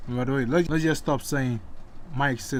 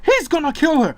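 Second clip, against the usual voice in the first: much higher, louder panicked shriek; 11 semitones higher, 5 dB louder than usual. A narrator's reading. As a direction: push the cry even higher.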